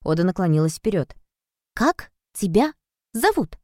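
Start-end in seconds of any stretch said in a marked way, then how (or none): 1.7-3.6 high, slow, word-by-word robot mimicry; spaced-out mock robot question; imitating a robot. A narrator's reading. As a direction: ask it with gaps between words, like a robot. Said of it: "спросила она с расстановкой, подражая роботу".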